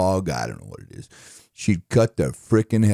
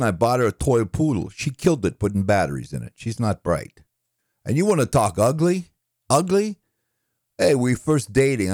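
lightly voiced New York one-liner comic; exasperated New York comic, pitch jumping up on setups; Rodney Dangerfield; 2 semitones higher than usual. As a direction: punch out put-upon wife jokes like a club comedian. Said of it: "let's do a couple of Rodney".

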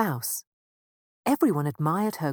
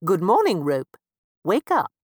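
louder wake-up call to the rope; 2 semitones higher, 8 dB louder than usual. Acted. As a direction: call out to rouse the sleeping rope. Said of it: "cried Mister Mouse".

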